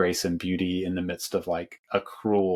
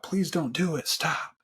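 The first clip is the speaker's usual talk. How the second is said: retold scream; 9 semitones higher than usual. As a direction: imitate a desperate scream at restrained volume. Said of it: "screams out".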